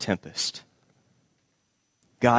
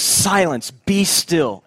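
commanding rebuke; 3 semitones higher, much slower than usual. Acted. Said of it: "He just says".

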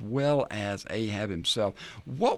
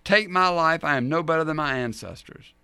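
a higher, louder put-on complaint; mock whining; 4 semitones higher, 4 dB louder than usual. Elijah praying to die in the desert, mock whining. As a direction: plead with a touch of self-pity. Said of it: "he whined".

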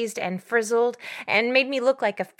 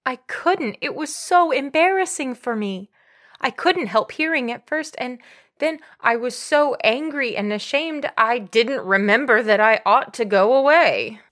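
higher-pitched, embarrassed explanation; upset self-defence; 3 semitones higher, 5 dB louder than usual. Acted. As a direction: defend yourself, building louder toward the end. Defends herself, recalling shame and anger.

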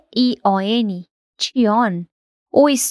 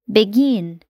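"Begin" with -GIN stressed, be- light; stress on second syllable; 3 semitones lower than usual. Shown as a demonstration. Teacher models verb "Begin", stress on GIN. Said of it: "o stress geralmente tá na segunda sílaba".

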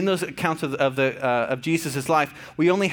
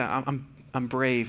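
gentle bedtime affirmation; 4 semitones lower, 5 dB quieter, slower than usual. Retold or imitated. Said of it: "And I say".

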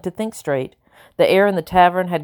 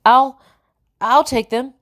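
much higher and louder, a bold claim; loud announcement; 8 semitones higher, 5 dB louder, slower than usual. A narrator's reading. Cook boldly claiming the girls at the table, loud and high. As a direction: blurt it out over the table, no backing down. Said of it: "Jenny announced loudly".

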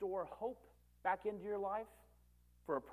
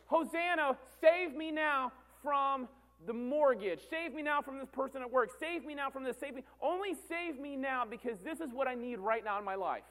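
mock desperate prayer; 7 semitones higher, 3 dB louder than usual. Believer begging Jesus for rescue from problems, high pleading. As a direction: plead high, stretching the cries.

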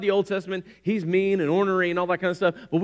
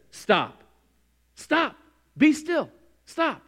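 commanding rebuke; 6 semitones higher, much slower than usual. Retold or imitated. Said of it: "the owner of the weather says".

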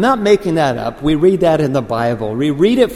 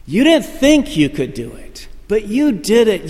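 high-pitched proclamation, moderately raised voice; mock announcer, pitched high; imitated announcer's yell; 7 semitones higher, 3 dB louder than usual. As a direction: call out a triumph to the finisher. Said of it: "He's gonna yell out your name like".

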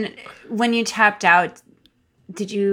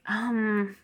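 softer, unimpressed shrug of a delivery; acted indifference; 5 dB quieter than usual. Recalling making out with boys to the co-host, mildly indifferent. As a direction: let it sink, underwhelmed and noncommittal.

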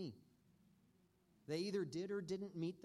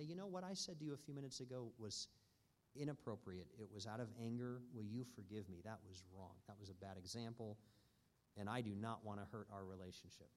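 sincere apology; 5 semitones lower than usual. Retold or imitated. Father apologizing to his child.

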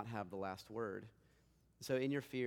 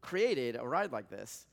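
stunned disbelief; 2 semitones higher, 7 dB louder, slower than usual. Retold or imitated. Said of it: "And you're like".

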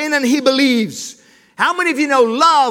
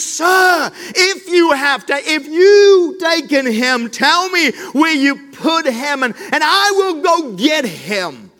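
exasperated pleading. Acted. Mary begging the gardener, lightly acted pleading. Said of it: "Can you hear the exasperation in her voice, almost pleading?".

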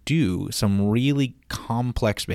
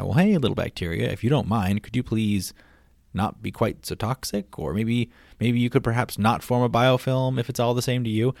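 mock-courteous request, slightly lifted voice; polite coaxing, pretend; 2 semitones higher than usual. Podcaster pretends to ask little bacteria a favor, politely coaxing. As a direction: ask ever so nicely, playfully tentative. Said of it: "If we can tell it to the bacteria that way".

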